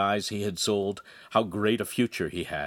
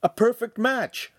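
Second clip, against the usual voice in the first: high, louder, drawn-out exclamation; teasing enthusiasm; jovial cheer; 5 dB louder than usual. A narrator's reading. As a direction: crow merrily over the match. Joking brother cheers the match.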